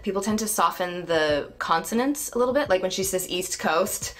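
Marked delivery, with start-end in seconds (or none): 3.3-4.1 "East Coast" with both T's sounded; crisp T's. Shown as a demonstration. Coach points out consonants, crisp T's in "East Coast". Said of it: "those T's are very East Coast".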